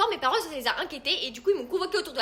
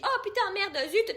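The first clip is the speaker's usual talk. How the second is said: prim swearing; 7 semitones higher, slower than usual. Retold or imitated. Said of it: "même quand je dis".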